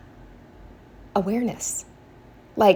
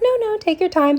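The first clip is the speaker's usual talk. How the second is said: quoting the pharmacist; 12 semitones higher than usual. Retold or imitated. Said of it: "she's like".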